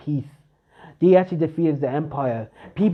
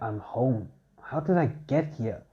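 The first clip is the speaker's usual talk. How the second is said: confused waking mumble; 3 semitones lower, 7 dB quieter than usual. Acted. Bell wakes up confused at home.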